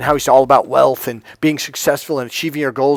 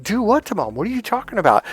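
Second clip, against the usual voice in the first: higher-pitched, softer puzzled reply; retold bafflement; 7 semitones higher, 4 dB quieter, faster than usual. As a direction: act out being caught clueless by an accusation.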